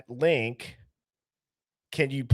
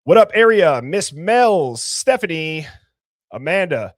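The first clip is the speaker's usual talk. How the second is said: loud greeting; 7 dB louder than usual. Real, not acted. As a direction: call out to the whole chat. Greeting the live chat.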